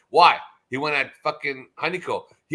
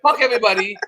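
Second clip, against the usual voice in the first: screamed much higher and louder; furious yell; 6 semitones higher, 11 dB louder than usual. Retold or imitated. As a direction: explode at everyone. Voicing Oz cursing everyone.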